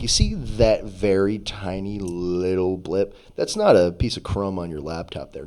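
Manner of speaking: slow, low mock-patient explanation; mock explainer. Guy explaining a graph's tiny blip, slow mock explainer. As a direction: lightly imitate someone spelling it out slowly. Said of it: "the one guy was explaining".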